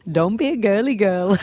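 Arnie impression that slips into an Indian accent; botched accent, Austrian gone Indian; failed Arnie accent. Radio host attempting Arnie's encouragement, accidentally Indian accent. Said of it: "It sounds Indian".

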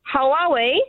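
tentative attempt at an Australian accent. Shown as a demonstration. Chinese caller demonstrating for radio hosts, hesitant Australian accent. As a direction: haltingly try an Aussie accent. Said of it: "love to hear your Australian accent".

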